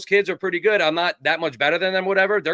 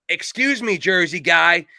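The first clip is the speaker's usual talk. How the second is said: raised-pitch coach calling out; Nick Saban; 3 semitones higher, 4 dB louder, slower than usual. Retold or imitated. Coach stops the Jersey kid walking past, raised imitated call. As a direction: imitate a coach hailing a player. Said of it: "Coach Saban said".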